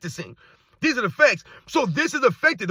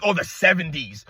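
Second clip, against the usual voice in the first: lower, sneering "Oh, the seventies"; mock disgust; 6 semitones lower than usual. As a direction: imitate his dismissive scoff at the seventies. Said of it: "you said it with almost, like, disgust".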